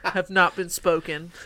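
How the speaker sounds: slow, loud, laughing mock-solemnity; laughing through words. Real, not acted. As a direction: say it grandly while cracking up. Mock-solemn reply while laughing.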